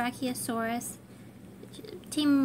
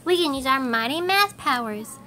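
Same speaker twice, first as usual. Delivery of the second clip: exclaimed. Acted. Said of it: "exclaimed Millie".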